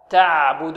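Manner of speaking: تعبد with the ayn held briefly, flowing; correct medium ayn. Shown as a demonstration. Tajweed teacher shows pupils the right reading, measured medium ayn. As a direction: say تعبد letting the ayn sound a moment. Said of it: "العين هنا حرف متوسط، نقول".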